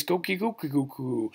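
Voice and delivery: lightly crowed rooster call; a singsong imitation of a rooster; Japanese rooster crow. Lecturer showing how Japanese roosters sound, light crowing. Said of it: "But then Japanese".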